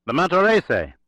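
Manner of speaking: high, loud desperate scream. Acted. Telenyakov screams the name as the trap springs, loud high scream. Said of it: "The name was screamed by Telenyakov".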